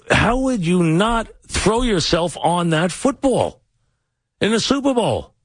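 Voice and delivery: incredulous rant. Real, not acted. Sports host berating the quarterback for not diving on that football, incredulous.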